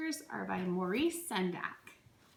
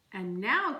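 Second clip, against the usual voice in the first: louder announcing call; cried out; 5 dB louder than usual. Acted. Max announces the rumpus to the wild things, cried out. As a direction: call it out like a king. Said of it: "cried Max".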